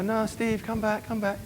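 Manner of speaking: high, mock pleading girl voice. Girls calling Steve back after the twirl, mock pleading. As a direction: lightly play girls begging him to stay. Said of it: "And they go".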